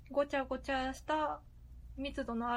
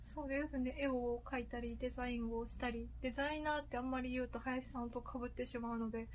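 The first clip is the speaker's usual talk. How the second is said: voice changer; 3 dB louder than usual. Real, not acted. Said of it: "ボイスチェンジャー使ってるんでね".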